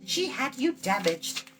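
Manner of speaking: put-on high, bright girlish voice, proud of her ancestry; young girl Eilonwy. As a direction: play the chattering young princess.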